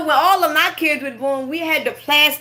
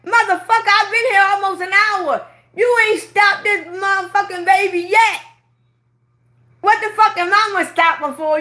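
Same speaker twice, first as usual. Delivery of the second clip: retold angry comeback; 5 semitones higher than usual. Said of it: "I'm like".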